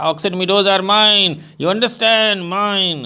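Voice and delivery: Lomov shouting at Natalia in a quarrel, high and insistent. Acted. Lomov shouting at Natalia that the meadows are his, a hammed-up high shout.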